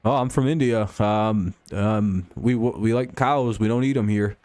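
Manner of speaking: barely-there attempt at an Indian accent; failed Indian accent. Shown as a demonstration. Streamer proving he can't do accents, weak Indian accent. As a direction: try an Indian accent that hardly leaves your own voice. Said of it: "a guy from India accent".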